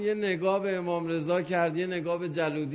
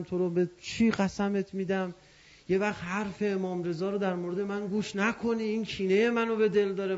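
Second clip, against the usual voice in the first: pleading cry. Retold or imitated. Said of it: "جلودی داد زد".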